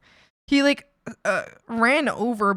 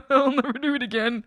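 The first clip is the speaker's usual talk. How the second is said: laughing mock apology; 3 semitones higher than usual. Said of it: "and I'm like".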